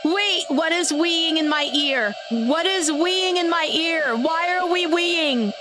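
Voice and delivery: high, slow squeak in mock alarm; high squeaky voice. Real, not acted. Odd noise in her ear.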